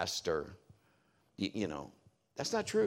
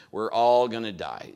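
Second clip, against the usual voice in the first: louder second cry of We're all gonna die; mock scream; 5 dB louder than usual. Drunk passenger yelling in turbulence, a louder mock scream. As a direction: punch the repeat harder like a frightened drunk. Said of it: "he starts screaming".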